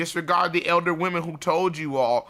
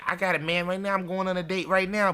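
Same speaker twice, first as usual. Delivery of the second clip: higher-pitched girl imitation; lightly voiced defensive girl; mock hussy girl; 5 semitones higher than usual. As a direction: pitch it up, imitating a young woman's retort. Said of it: "what would the hussy girl say".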